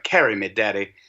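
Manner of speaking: imitated Casablanca accent, lightly done; daughter's joke Casablanca accent. Parent imitating daughter asking to be carried, Casablanca accent. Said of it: "like, Casablanca accent".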